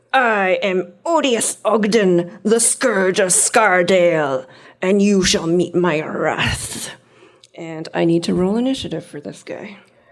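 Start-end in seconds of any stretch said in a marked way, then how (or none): 0.1-6.9 slow, deliberate, word-by-word delivery. Running the game, the speaker voices the hobgoblin's entrance, declaring as Odious Ogden. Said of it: "and he declares".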